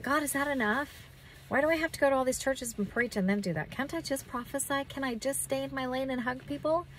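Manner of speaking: mildly plaintive questioning; mild pleading. Retold or imitated. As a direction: question God with a light, imploring complaint. Retells questioning God about her calling.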